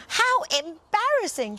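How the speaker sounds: high, timid little lamb voice; shivering lamb. Acted. Lamb wails at being changed, high and timid. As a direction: tremble with embarrassment. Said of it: "shivered the gentle little lamb".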